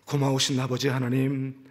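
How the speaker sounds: closing prayer. Real, not acted.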